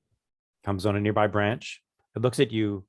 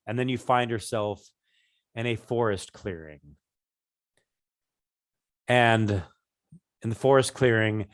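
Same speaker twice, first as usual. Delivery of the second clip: scene-setting narration; slower than usual. A narrator's reading. Game master sets the scene.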